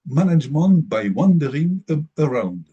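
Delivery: English phrase in a strong French accent; slow English term, French accent. Real, not acted. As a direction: say it slowly and loudly with French pronunciation. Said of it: "excusez mon accent".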